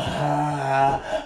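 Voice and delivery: drawn-out breathy "haaa"; imitated open-mouthed dog. Dog upside down over there, imitated open-mouthed exhale. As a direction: loll out a long open-mouthed "haa". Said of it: "with his mouth all".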